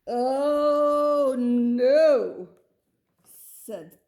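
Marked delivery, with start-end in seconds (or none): 0.1-2.5 loud, high cry of dismay; Mother Goat, loudly appalled; shocked mother. Acted. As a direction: exclaim in horror at the request. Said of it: "said Mother Goat".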